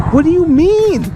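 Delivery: real confusion at her words; baffled. Real, not acted. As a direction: push it up in disbelief. Baffled by her cryptic line.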